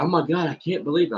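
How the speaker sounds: hammed-up disbelief, voice up high; mock amazement. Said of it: "she was freaking out".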